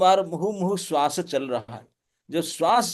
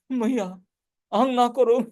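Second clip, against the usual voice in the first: put-on higher, pleading little boy's babble; lisping child talk; 6 semitones higher than usual. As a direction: plead like a small boy promising never again. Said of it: "तोतली बोली से बोल रहे थे". (तोतली बोली में, ऊँची आवाज़ में विनती करता बच्चा)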